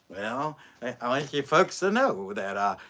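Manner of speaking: a hint of a folksy politician on TV reassuring folks; Mike DeWine impression. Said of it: "Mike DeWine, he talks like this".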